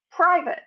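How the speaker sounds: "Private" with no final T. Shown as a demonstration. Coach demonstrating American speech, T dropped. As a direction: let the T of "Private" trail off. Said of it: "We don't articulate the T at all".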